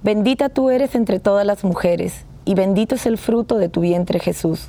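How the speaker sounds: steady devotional recitation; prayer recitation. Acted. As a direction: recite the Hail Mary reverently. Leads the Hail Mary.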